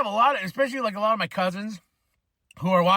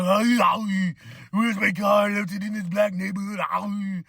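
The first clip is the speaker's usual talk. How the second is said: put-on complaint of a wounded white man; Aussie white man. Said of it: "especially an Aussie white man".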